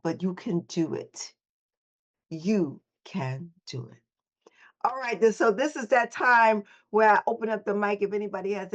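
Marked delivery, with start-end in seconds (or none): 2.3-4.0 whispered encouragement. Real, not acted. Coach whispering encouragement to the listeners.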